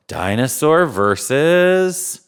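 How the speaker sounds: slow, drawn-out announcer call; slow showman announcing the next match; announcer build-up. Acted. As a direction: stretch versus like a ring announcer.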